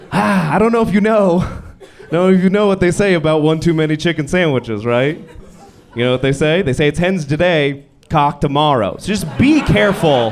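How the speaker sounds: a hint of a laughing, disapproving dad; mocking dad. Dad at the burger place teasing his son, lightly voiced with laughs. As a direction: lightly voice the dad, chuckling and warning. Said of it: "and he'd go".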